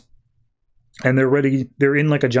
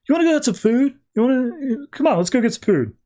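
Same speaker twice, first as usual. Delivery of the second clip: eager invitation; 11 semitones higher, faster than usual. Retold or imitated. Aquaman eagerly invites Mara out.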